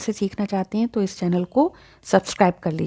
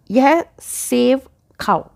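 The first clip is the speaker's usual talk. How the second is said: slow command example; 2 semitones higher, much slower than usual. Shown as a demonstration. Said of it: "अगर मैं आपसे कहूँ".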